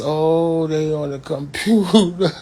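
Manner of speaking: lightly voiced mother noticing the computer; imitating mama. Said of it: "Like this".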